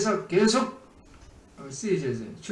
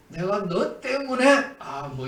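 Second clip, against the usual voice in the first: mock bitter blame; 4 semitones higher, slower than usual. Complainer blaming his partner for the hardship, mock bitter and slow. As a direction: act out blaming someone for your hardship. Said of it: "이래가면서 막 휘어잡".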